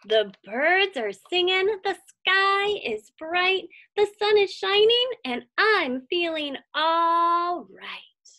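bright sing-song refrain, slow at the end; a hint of a sunny chant, slowed on the last line; cheerful refrain. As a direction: lift the lines up like a happy chant. Pete sings out his happy refrain.

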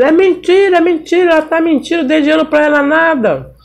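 high, hurried mock denial from the accused uncle; uncle's high denial. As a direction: play the uncle squirming out of the accusation, a touch high. Uncle denies the child's accusation. (negação aguda e apressada do tio)

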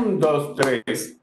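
accented triplet count; first beat stronger. Shown as a demonstration. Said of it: "El primer tresillo".

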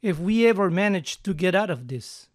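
"ever" and "manage" both weighted; ever and manage stressed. Shown as a demonstration. Teacher models the full sentence for students, stressed. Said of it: "Hasta pueden añadir ever aquí también".

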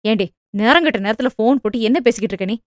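fast, heated retort; quick indignant comeback; flaring back. Acted. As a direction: snap back defensively. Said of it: "சகுந்தலாவும் எகிறினார்".

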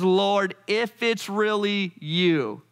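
doubtful Peter. Retold or imitated. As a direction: call out, half not believing. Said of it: "And he says".

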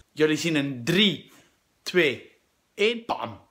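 slow, loud build to a bam; countdown. Real, not acted. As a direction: count down then pop the reveal. Countdown to outfit reveal.

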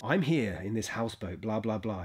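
light voiceover read, spoken close to the screen; a quick, understated voiceover demo. Shown as a demonstration. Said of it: "I just speak in my voiceover voice".

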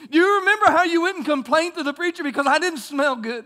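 preaching God's words, building; voicing God. Preacher voices God's rebuke.

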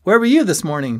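high, loud friend's voice; Ben's eager questioning. A narrator's reading. Friend asking where he was this morning, high and loud. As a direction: ask it high and insistent.

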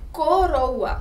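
"coroa" loud, opening co held; sounding out coroa. Shown as a demonstration. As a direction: stretch the co of "coroa" so it stands out. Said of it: "olha o som que está fazendo". ("coroa" forte, destacando o som inicial co)

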